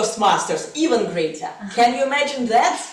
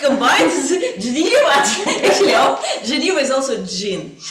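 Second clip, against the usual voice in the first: laughing through the words; 3 semitones higher than usual. Real, not acted. Evaluator amused by her own wordplay, laughing. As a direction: chuckle through the pun.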